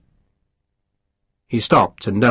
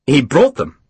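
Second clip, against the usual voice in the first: vigorous; 2 semitones higher, 3 dB louder than usual. Acted. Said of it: "Sharp said vigorously".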